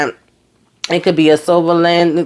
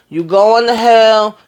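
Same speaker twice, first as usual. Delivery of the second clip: louder, slow and drawn out, teasing; laughing reprimand to a friend who hid her sickness; mock scolding; 6 semitones higher, 4 dB louder, slower than usual. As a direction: call her out loud and slow, half joking.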